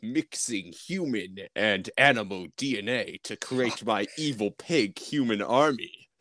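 hammy evil mastermind voice; cheesy TV villain. Retold or imitated. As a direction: ham it up like a B-movie villain. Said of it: "monster of the week villain".

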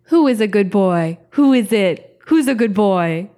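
put-on cooing who's a good boy; dog baby talk. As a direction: coo it like talking to a puppy.

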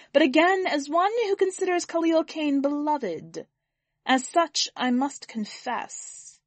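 alien orator. Acted. Alien benefactor opens speech to jeering mourners, grand address. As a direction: proclaim it to a hostile hall.

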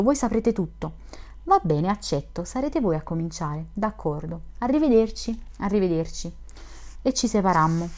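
expressive audiobook reading of dialogue; literary read-aloud, lightly acted dialogue; story narration. A narrator's reading. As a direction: read the story aloud with lively, measured feeling.

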